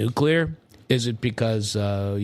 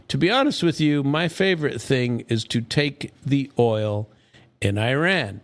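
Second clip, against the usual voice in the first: a hint of Trump, slightly raised; quoting Trump; 4 semitones higher than usual. Host reads a Trump quote aloud in a touch of mimicry. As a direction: lightly imitate a smug boast. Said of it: "Here's a Trump quote".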